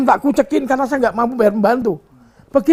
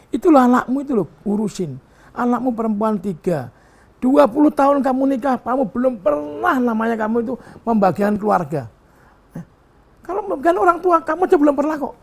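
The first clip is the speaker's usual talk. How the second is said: raised voice, pitch climbing higher; retold scolding; 3 semitones higher than usual. Father retelling how he scolded his son, raised voice. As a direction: tell the son off again, with a mild heat. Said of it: "saya bilang".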